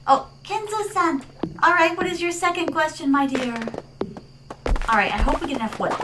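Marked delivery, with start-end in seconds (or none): 0.1-3.5 sweet persona voice. Acted.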